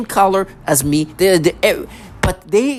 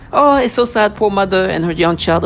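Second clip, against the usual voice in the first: mock sympathy; 2 semitones higher than usual. Mocking fake sympathy.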